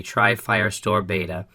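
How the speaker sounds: usual speaking voice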